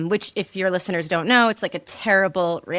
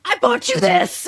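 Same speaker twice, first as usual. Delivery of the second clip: high-pitched retold tantrum cry; losing it; 14 semitones higher than usual. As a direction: re-enact a mom at breaking point, voice way up. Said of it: "I lost my fucking mind".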